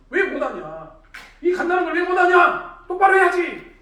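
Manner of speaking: loud, high shout of reproach; impatient scolding. Retold or imitated. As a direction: act out a harsh, impatient telling-off. 예전의 다그치던 자신을 재연. (버럭 다그치며 호통치듯)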